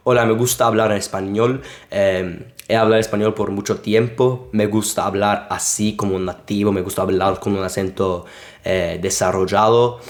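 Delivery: pure, clean Spanish vowels; Spanish with crisp native vowels. Shown as a demonstration. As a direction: speak it like a native. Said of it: "like that".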